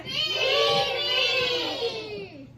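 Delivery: very high shouted wail; roaring monster. Acted. Hungry thing begging for food, shouted high. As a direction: bellow it like a starving beast.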